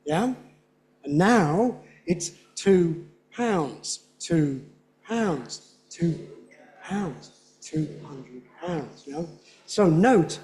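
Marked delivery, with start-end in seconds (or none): 1.0-9.0 slow "two pounds" beats; slow beat demo. Shown as a demonstration. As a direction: tap out each beat. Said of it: "Downgrading is the norm".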